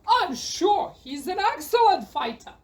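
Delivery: said through a chuckle; laughing. Acted. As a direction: let the laugh spill into the words. Knight laughs at the boy's claim.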